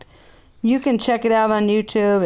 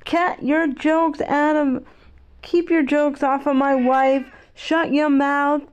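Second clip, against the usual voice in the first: imitating an angry yell, slow and a little higher; a retold shout, not full force; mild mock yell; 5 semitones higher than usual. Will Smith yelling at Chris Rock, mild mock yell. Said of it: "he yells at Chris".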